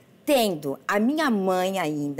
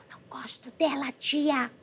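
sulky mother voice; 5 semitones higher, 6 dB quieter than usual. Retold or imitated. Mother jealous of granddaughter.

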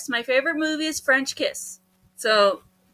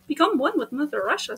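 put-on Russian accent; 4 dB quieter, faster than usual. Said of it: "I'm doing the Russian voice".

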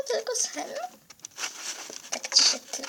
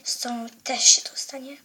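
sinister whisper. Acted. Villain threatens the girl.

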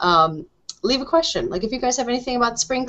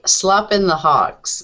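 slow incredulous quote; much slower than usual. Retold or imitated. Questioning the co-host's odd phrase.

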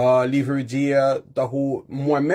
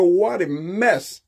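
slow dismayed exclamation; 3 semitones higher, much slower than usual. Shown as a demonstration. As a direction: draw out What a mess, slow and dismayed. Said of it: "antre nan chanm timoun yo". (paran dekouraje, dousman)

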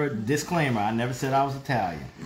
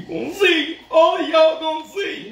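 high, loud boast; excited; 13 semitones higher, 8 dB louder, slower than usual. Real, not acted. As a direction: call it out like a promise. Boasting to viewers.

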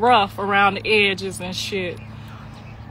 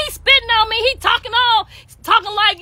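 much higher, indignant complaint; retold upset daughter; 11 semitones higher than usual. Callie complaining to her mother, high and indignant. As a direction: protest like a wronged teenager. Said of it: "She was like".

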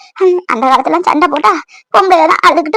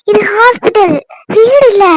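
higher-pitched, insistent reprimand; firm, raised-pitch telling-off; exasperated scolding; 5 semitones higher, slower than usual. Acted. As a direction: scold a crying relative in public. Scolding uncle for crying in hospital.

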